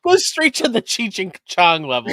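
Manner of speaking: mock Mexican accent. Co-host mocks host's slip, Mexican accent. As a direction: lightly parody a stoner Mexican accent.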